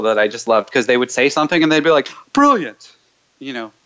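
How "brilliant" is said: "Brilliant" in a high, mock British accent. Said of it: "with a British accent".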